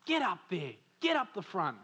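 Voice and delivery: a touch of a pushy mum urging; lightly voiced wife nudging her husband forward. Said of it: "my mum says".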